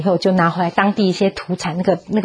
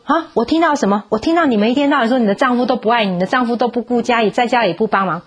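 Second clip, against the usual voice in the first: indignant rebuke; 4 semitones higher than usual. Retold or imitated. God rebukes constant complaining.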